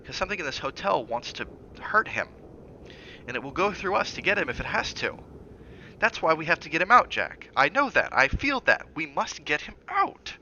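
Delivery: a mother begs to save her son, frantic; agitated. Acted. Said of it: "in her agitation".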